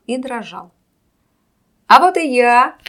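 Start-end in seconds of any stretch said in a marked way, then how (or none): 1.9-2.8 loud, high stage shout. A narrator's reading. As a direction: call it out loud to the crowd. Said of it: "громко крикнул хозяин".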